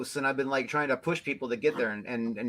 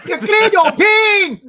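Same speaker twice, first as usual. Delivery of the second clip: high, slow, loud mock accent; character voice; 12 dB louder, much slower than usual. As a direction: belt out the cartoon character's line. Voicing thick-accented character.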